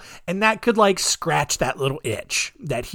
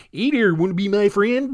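Lenny impression; 4 semitones higher than usual. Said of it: "turning into Lenny from Of Mice and Men".

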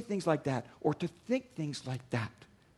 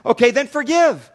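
God's firm reply; 5 semitones higher, 13 dB louder than usual. Retold or imitated. God's reply in acted dialogue.

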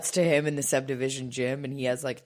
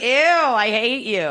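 loud, high disgusted groan; 6 semitones higher, 6 dB louder than usual. Retold or imitated. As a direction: recoil in disgust. Disgusted reaction.

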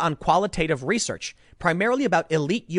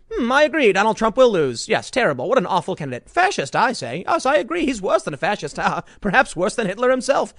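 snooty Herman; 4 semitones higher than usual. Retold or imitated. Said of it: "And Herman goes".

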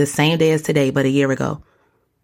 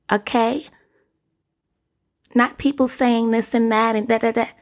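higher, rapid sassy rap-star voice; pitched-up diva attitude, tossing off lines fast; impression of a rapper; 4 semitones higher than usual. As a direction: do a higher, sassy celebrity rapper bit. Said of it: "That was my impersonation of a rapper".

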